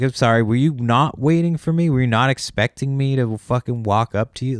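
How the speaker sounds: retelling an annoyed comeback to a buyer; exasperated retort. Retold or imitated. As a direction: sound fed up and incredulous. Confronting the confused buyer.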